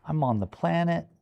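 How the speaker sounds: puppy voice, wide-eyed and giddy; excited puppy voice. Retold or imitated. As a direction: gush like an amazed puppy. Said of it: "You were just like".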